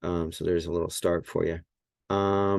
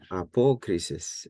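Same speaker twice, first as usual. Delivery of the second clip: apokrisis stressed on the second syllable, "po"; stress on accented syllable. Shown as a demonstration. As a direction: lean on the "po" in apokrisis. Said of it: "I think that's where, where the accent is".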